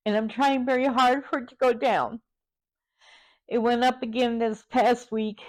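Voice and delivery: real tears held back under the words; holding back tears. Real, not acted. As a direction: talk through it while trying not to break down. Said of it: "And I'm trying not to cry now".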